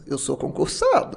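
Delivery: slow, deliberate punchline to a retold telling-off; arremate pausado. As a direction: spell it out slowly, putting the mother in her place. Arremate da bronca recontada na mãe. (arremate dito devagar, com ênfase)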